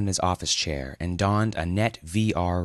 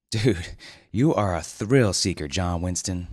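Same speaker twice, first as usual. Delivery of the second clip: admiring scold. Acted. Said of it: "admonition and admiration".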